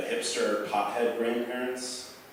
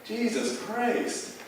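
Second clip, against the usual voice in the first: loud, higher exasperated rant; exasperated outburst; 10 semitones higher, 6 dB louder, slower than usual. Real, not acted. Comedian defending grandpa, loud exasperated outburst. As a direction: vent in half-joking outrage. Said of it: "comedian exasperated rant".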